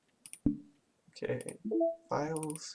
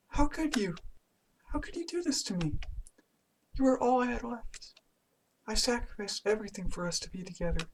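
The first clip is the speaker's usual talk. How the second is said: put-on higher but softer, hurt accusing girl; held-back wounded accusation; 8 semitones higher, 9 dB quieter than usual. Monika reproaching Grant late at night, high soft hurt voice. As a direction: scream inside but keep it quiet. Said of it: "I can't scream right now".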